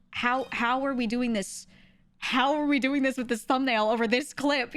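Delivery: mock-appalled, leaning on the words; incredulous protest. Streamer reacting to suggestive thumbnails over an innocent clip, incredulous.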